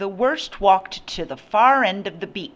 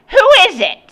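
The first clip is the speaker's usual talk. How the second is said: high, loud woman's holler; shrill call; 12 dB louder, faster than usual. A narrator's reading. Mother calling to her son at the door, shrill.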